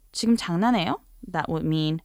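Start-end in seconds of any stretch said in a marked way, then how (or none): 0.1-1.0 quick, curt rising question; curt challenge. Shown as a demonstration. Teacher models challenging a speaker with "is this a joke?", curt. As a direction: demand it briskly, as an affronted interruption. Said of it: "or the very opposite".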